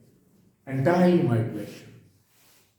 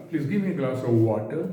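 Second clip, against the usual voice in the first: slow, gentle polite asking; very gentle request. Shown as a demonstration. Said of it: "your tone should be very gentle". (धीमी, बहुत नरम विनती)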